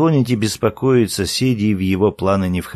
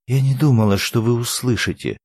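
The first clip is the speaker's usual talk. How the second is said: plain reading voice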